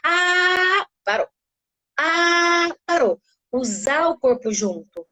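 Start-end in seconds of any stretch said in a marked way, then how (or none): 0.0-0.9 sustained high ah; a long steady ah; long held ah. Shown as a demonstration. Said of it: "tá fazendo um longo bem, um som bem comprido". 2.0-2.7 sustained high ah; a long steady ah; long held ah. Shown as a demonstration. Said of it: "tá fazendo um longo bem, um som bem comprido".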